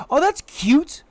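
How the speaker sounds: high, bright little cartoon squeak; a tiny voice gushing at chat; squeaky cute voice. Gushing to chat in a squeaky cute voice.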